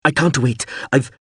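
urgent call over noise, only lightly shouted; strained shout. A narrator's reading. Pilot warns Hawser over the wreckage, restrained urgent shout. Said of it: "Mip shouted above the scream".

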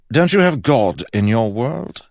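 high, loud disbelieving king; taken aback. A narrator's reading. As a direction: question it as a startled king. George seemed taken aback.

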